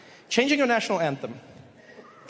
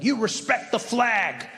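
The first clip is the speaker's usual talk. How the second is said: slow, emphatic mock demand; mock stern patriot; slower than usual. Imitating people insisting on the flag, mock stern demand. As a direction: lay down the rule, drawn out.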